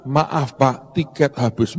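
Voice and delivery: a lightly voiced clerk, soft and slow; polite ticket clerk. Ticket clerk to angry rich man, soft and slow. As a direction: apologise flatly, slowly, like a weary clerk. Clerk refusing a third time.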